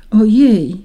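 lightly acted startled raindrop; frightened cry. A narrator's reading. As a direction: exclaim with a touch of fright. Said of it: "zawołała wystraszona".

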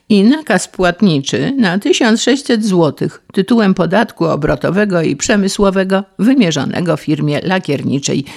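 mildly aggrieved lament; Paleta moaning. Acted. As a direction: list the woes, ending in disbelief. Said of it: "zajęczał nieszczęsny Paleta". (żałosne, oburzone biadolenie)

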